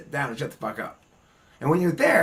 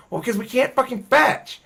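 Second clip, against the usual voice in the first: higher, louder indignant parrot; a fed-up parrot complaining about fetching, louder and higher; 5 semitones higher, 5 dB louder than usual. Retold or imitated. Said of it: "They're like".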